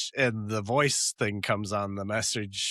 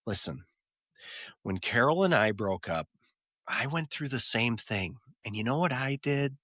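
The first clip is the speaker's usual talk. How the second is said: lightly voiced Ross, dragging out the punchline; Ross, earnest; 3 dB quieter than usual. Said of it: "And Ross says".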